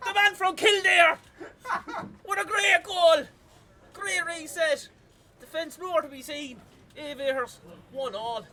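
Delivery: loud, high, thrilled caster shout; excited goal call. Real, not acted. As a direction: roar the goal to the crowd.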